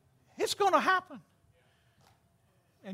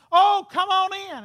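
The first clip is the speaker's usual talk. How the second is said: ladies' welcome; 7 semitones higher, 6 dB louder than usual. Retold or imitated. Voicing ladies inviting pastor.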